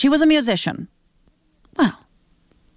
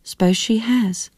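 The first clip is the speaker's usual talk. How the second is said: slow, musing reply; slowly, as if thinking it over; thoughtful; 2 semitones higher than usual. Acted. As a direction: son slowly admitting his girlfriend changed him. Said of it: "sounding thoughtful".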